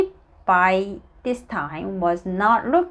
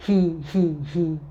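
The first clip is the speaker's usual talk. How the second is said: joyless, spaced-out "he, he, he"; a feeble, miserable attempt at giggling; miserable laugh; 3 semitones lower, much faster than usual. A narrator's reading. Miss Giggle tries to giggle, miserably. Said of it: "he said miserably".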